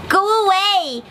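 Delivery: high, bratty duckling voice; duckling chasing the ugly duckling off; mocking duckling. A narrator's reading. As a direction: push him away with scorn. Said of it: "the yellow duckling shouted".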